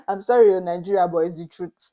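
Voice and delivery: loud burst of laughter into a sorry; laughing apology. Real, not acted. Vlogger apologises to Nigeria while laughing loudly.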